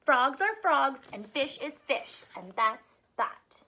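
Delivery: a hint of a firm little frog; stubborn tadpole. Tadpole ends the argument firmly.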